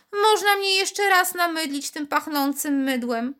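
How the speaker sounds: high little voice, lightly dreamy; dreamy, familiar. A narrator's reading. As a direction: coax her to soap it again. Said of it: "rozmarzony i poufały".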